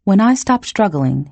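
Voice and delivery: plain reading voice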